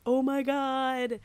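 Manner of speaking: high, starstruck gushing; gushing fan. Retold or imitated. Fan gushing at voice actors, swooning and high. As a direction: swoon over a favorite voice actor. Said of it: "and you're just like".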